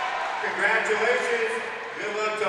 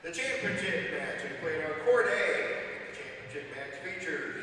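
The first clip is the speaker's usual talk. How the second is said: arena announcer; 3 dB louder than usual. Real, not acted. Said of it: "There's the arena announcer".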